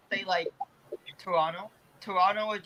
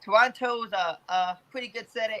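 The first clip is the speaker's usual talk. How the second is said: attempted Texas accent; 3 semitones higher than usual. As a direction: have an unsure go at Texas vowels. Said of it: "do a Texas accent".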